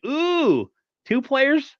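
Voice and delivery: a sudden squeal of hopeful disbelief; surprised ooh. Retold or imitated. Fan hearing a second trade may come, excited surprise. Retelling his reaction to trade news.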